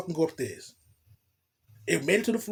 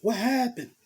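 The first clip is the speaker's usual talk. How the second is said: voicing the woman higher, scolding and worried; a lightly voiced, higher fretful woman; girl's worried voice; 5 semitones higher, slower than usual. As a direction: play the anxious girlfriend fussing over him. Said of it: "she's like".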